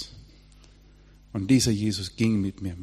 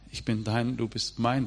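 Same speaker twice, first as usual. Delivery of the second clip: soft love vow. Retold or imitated. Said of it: "Die Psalmen beginnen mit".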